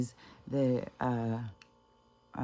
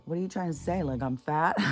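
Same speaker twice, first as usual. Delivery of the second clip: mildly indignant, higher-pitched challenge; imitated pissed-off mother; 4 semitones higher than usual. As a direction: challenge him with mock offense, rising at the end. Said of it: "She wasn't just pissed".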